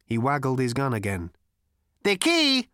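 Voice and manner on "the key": high, loud machine voice; simple robot statement. A narrator's reading. Robot explains to Zaphod, simply and coldly. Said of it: "continued the robot simply".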